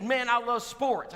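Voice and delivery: a hint of a laid-back husband; voicing Perry. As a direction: lean into the man's drawl.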